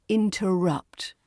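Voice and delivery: "interrupt" said slowly, stress on the final rupt; last-syllable stress. Shown as a demonstration. Teacher models "interrupt" for learners, final syllable stressed. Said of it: "The stress is on the last syllable".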